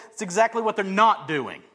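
firm correction with weight on NOT; authoritative. Acted. Jesus answering a question about the Pharisees, firmly authoritative. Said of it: "Jesus says authoritatively".

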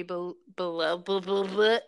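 stuck repeating a syllable, tongue-tied; stumbling on words. Real, not acted. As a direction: trip over the word and keep restarting. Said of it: "I was doing so good, damn it".

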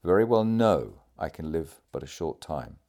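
firm weight on KNOW, then falling away; understated emphatic statement of a dying man. A narrator's reading. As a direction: press the words home, KNOW stressed most. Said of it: "The emphatic manner in which he pronounced".

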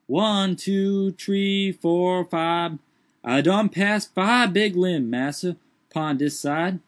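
high put-on dialect voice, startled; Jupiter's voice. A narrator's reading. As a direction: lift the voice high and protest. Jupiter counts limbs.

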